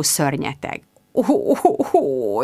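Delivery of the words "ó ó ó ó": wailing. A narrator's reading.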